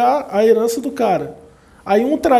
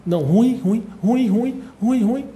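mock disgusted verdict; 2 semitones higher, slower than usual. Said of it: "você fica assim, ó".

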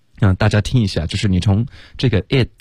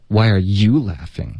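真实的质问; slower than usual. Shown as a demonstration. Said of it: "再来一遍".

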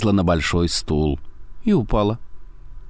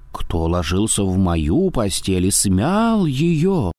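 ordinary delivery

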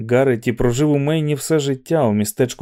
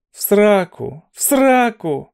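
higher, louder В сраку hurled out; shouted curse; 9 semitones higher, 3 dB louder, slower than usual. A narrator's reading. Olson yells a curse at the teasing McVries. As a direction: yell it back in anger. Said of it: "закричав Олсон".

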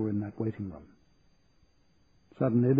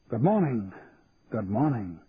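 cheerful greeting in a soft Scottish burr; cheerful Scottish doctor. A narrator's reading. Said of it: "cheerfully, in a soft Scottish burr".

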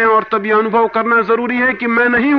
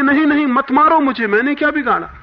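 retold tearful shout, high and loud; crying out; 9 semitones higher, 4 dB louder, faster than usual. Mystic weeping on the boat cries out, retold high shout. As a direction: beg loudly not to be beaten. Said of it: "चिल्लाने लगे".

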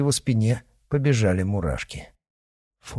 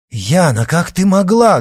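loud and higher, shocked fury; angry exclamation; 10 semitones higher, 9 dB louder than usual. A narrator's reading. Father rages at his daughter, shouting high and loud. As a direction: cry out at her in outrage. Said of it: "гневно воскликнул отец".

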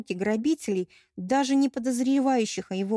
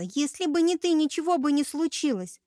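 high, loud blaming shout; accusing shout; 7 semitones higher, 5 dB louder than usual. Acted. Bride blaming the narrator for the wound, high accusing shout. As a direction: keep hurling the blame. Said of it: "набросилась на меня Эльнариса".

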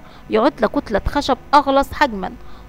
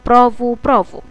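narrated cheer, louder on the first bravo; 5 dB louder than usual. A narrator's reading. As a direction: read out friends cheering, mildly raised. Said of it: "يصفقون ويهتفون". (هتاف تشجيع خفيف)

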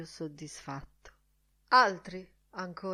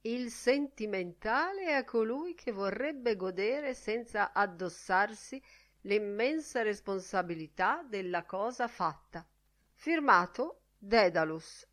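gaily reading aloud; 4 semitones higher than usual. A narrator's reading. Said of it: "leggendo gaiamente ad alta voce".

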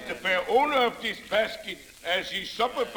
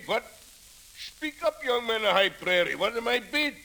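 auctioneer. Acted. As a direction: rouse the bidders like an auctioneer. Auctioneer calling bids at raffle.

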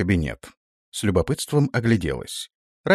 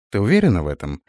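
calm question; faster than usual. Acted. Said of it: "спокойно уточнила ведьма".

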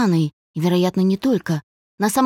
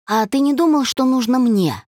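higher, hard-edged retort; harsh; 5 semitones higher than usual. A narrator's reading. Dasha challenges his selfish demand, harsh. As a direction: turn it back on him sternly, dragging the end. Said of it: "жёстко сказала Даша".

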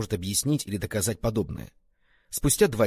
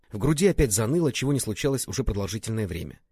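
usual speaking voice

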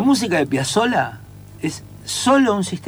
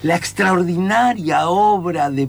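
slow, pompous radio presenter; grandiose, drawn-out announcement; mock announcer; 2 semitones higher, slower than usual. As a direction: ham up a tango radio host. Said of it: "en el mundo del tango no sabes lo que es".

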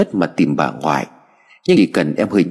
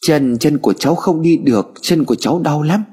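higher pitched, hiccuping sobs between words; a hurt child sobbing out the pain; 6 semitones higher than usual. Acted. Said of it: "Em liền nấc lên rồi nói".

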